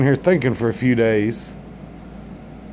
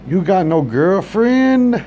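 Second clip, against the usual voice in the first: mock accent; 6 semitones higher, much slower than usual. Comedian voices restaurant worker.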